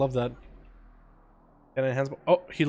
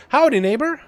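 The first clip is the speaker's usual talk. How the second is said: put-on Southern cowboy accent; 5 semitones higher, 4 dB louder than usual. Streamer voices shaman greeting the disc priest, hammed-up Southern accent. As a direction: greet the healer like a friendly Texas cowboy. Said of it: "What's that accent, my guy".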